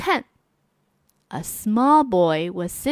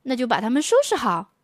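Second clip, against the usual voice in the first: quick order; faster than usual. Acted. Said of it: "妈妈说".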